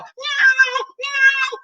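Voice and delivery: high mewing cat sounds; cat meow. Acted. Found cat meowing behind the dryer, high meows. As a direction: mew like a small cat.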